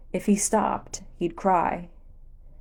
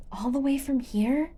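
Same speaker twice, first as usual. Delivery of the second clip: put-on higher kid voice, grumbling; sulky little boy complaining; boy grouching back at his friend; grouchy kid; 7 semitones higher than usual. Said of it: "the sneezing kid grouched".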